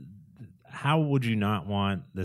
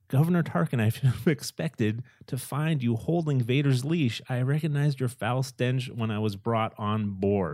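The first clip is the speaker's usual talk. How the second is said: imitating a British-accented princess; fancy senator speech, in a British accent; 2 semitones higher than usual. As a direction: quote it with a touch of British accent. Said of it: "she says it in a British accent".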